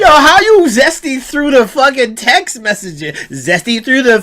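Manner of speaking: cracking up mid-question; teasing the caller, giggling; laughing tease. Real, not acted. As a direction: laugh through the whole line.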